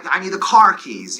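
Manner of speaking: New York accent on CAR KEYS; self-mocking New York accent; downstate New York accent. Shown as a demonstration. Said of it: "our very horrible".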